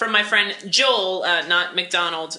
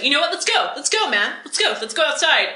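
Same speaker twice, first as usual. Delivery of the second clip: higher, threatening bar challenge; tough guy challenge; 6 semitones higher, faster than usual. Retold or imitated. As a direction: pick a fight at the bar. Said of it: "it's like".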